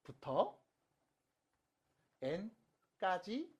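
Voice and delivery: slow, spaced-out notation reading; teacher modelling the formula phrase by phrase; reading demonstration. Shown as a demonstration. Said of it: "이렇게 읽으면 돼요".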